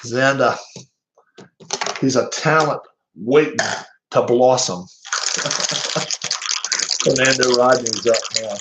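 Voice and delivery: lightly put-on Boston commentator; Jerry Remy Boston accent. Streamer commenting on a young batter, amateur Boston accent. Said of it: "I'll try my best, Jerry Remy".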